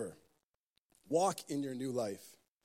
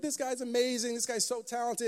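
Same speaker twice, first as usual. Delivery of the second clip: admiring crowd; 7 semitones higher than usual. Retold or imitated. Crowd gushes at the walker.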